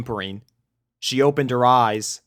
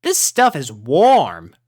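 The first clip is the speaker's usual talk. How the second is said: louder, slow and cozy; content exclamation; 4 semitones higher, 7 dB louder, slower than usual. A narrator's reading. Rainbow snuggling into the hay, contented and cozy. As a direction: savour the warmth. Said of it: "she exclaimed".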